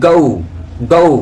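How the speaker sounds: গৌ as long gliding "go-oo"; correct pronunciation. Shown as a demonstration. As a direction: stretch গৌ into a rounded u. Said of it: "একটু odd লাগবে". (গৌ-র সঠিক উচ্চারণ, টেনে)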